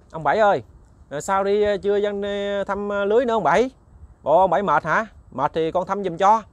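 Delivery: friendly call. Acted. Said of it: "nói chuyện dễ thương lắm".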